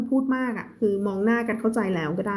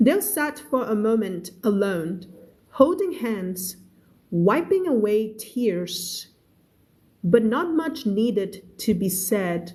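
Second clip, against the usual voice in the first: very slow, clear story reading; slow read-aloud; much slower than usual. Shown as a demonstration. Teacher reading a novel aloud to her class, very slow. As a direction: read each word out slowly for learners.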